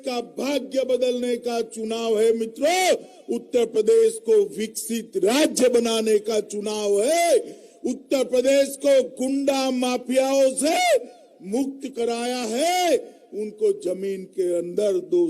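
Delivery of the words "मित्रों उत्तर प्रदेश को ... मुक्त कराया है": shouting. Real, not acted. Rally speech, crowd roused.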